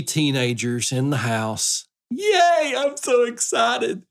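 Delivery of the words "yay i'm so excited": sarcastic high mock cheer. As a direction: fake excitement, dripping sarcasm. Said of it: "I get to be sarcastic".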